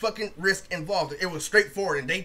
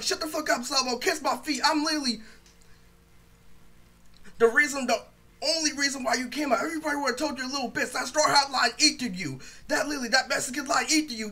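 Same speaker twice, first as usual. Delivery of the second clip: heated, higher-pitched roast; emotional comeback; 5 semitones higher than usual. Retold or imitated. Roaster telling Sabo off in a battle, emotional. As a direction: argue back all worked up, voice raised in pitch. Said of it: "I was saying it in emotion".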